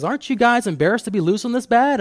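high, loud, stern rebuke from the coach; scolding coach. Retold or imitated. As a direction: shame the team like an angry coach. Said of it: "he says".

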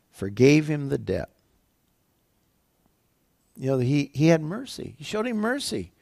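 ordinary delivery

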